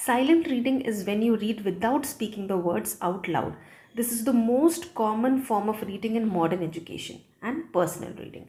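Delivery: reading a definition slowly and deliberately; slow textbook reading. Acted. Teacher reading the textbook definition aloud to students, slow and measured. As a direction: spell each phrase out slowly for the class.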